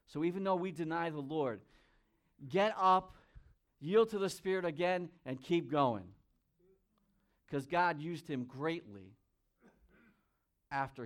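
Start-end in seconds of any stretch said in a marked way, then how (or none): 2.5-6.1 loud, punchy urging; rally them with a raised voice; rousing exhortation. Real, not acted. Preacher encouraging believers who have failed, loud rousing exhortation.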